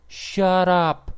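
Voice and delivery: high, loud angry bark; angry shout. Acted. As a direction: shut the rowdy crowd down. Cook snaps at yelling prisoners.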